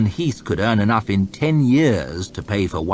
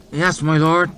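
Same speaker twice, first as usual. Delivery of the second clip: mumbled peasant; 8 semitones higher, 4 dB louder than usual. Acted. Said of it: "mumbled the peasant in a broad accent".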